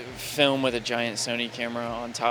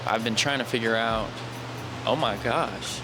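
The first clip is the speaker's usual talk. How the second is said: clipped, distorted mic; mic peaking. Real, not acted. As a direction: overdriven mic crackle. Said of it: "why is my mic peaking so bad".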